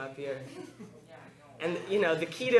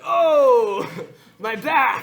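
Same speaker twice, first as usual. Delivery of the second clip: much higher, louder pained Pacino cry; 9 semitones higher, 13 dB louder, much slower than usual. Retold or imitated. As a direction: cry out like a hammed-up backache. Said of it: "similar to when he has a backache".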